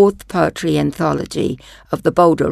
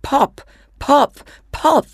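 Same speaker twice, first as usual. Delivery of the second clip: pop, pop, pop climbing higher; playful pops; 8 semitones higher, slower than usual. Acted. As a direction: pop rising high each time. Reads sound words playfully.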